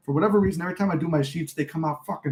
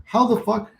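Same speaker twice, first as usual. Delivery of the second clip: high-pitched exasperated self-quote; mildly mad, pitched-up outburst; retold anger; 8 semitones higher than usual. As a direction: act out baffled annoyance, not shouted. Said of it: "I was mad".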